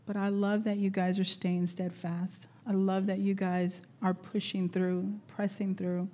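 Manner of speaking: ordinary delivery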